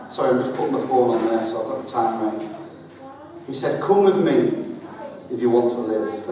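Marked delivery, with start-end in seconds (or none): 3.8-6.3 a light Arnold Schwarzenegger voice, barely changed; flat, low-key movie-robot delivery; a hint of Terminator deadpan; Terminator impression. Shown as a demonstration. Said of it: "my best Terminator impression".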